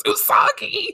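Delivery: high, squealed name; mock shriek in a very high voice; excited call. Friend grabs heroine from behind, squealing her name.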